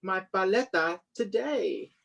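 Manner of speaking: put-on a boy panicking about his lost money; worried boy. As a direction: fret over the lost coins. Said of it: "lost money lament".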